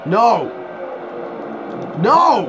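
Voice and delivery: loud, high panicked no; rising panicked yells; frantic shouting. Real, not acted. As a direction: yell it at the screen. Reacting to game in panic.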